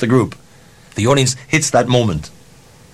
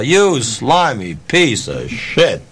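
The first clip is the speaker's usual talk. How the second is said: slow insult; much slower than usual. Retold or imitated. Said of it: "whatever name you can conjure up".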